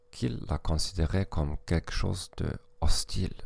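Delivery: French spoken with a German accent. Real, not acted. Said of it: "avec un accent allemand".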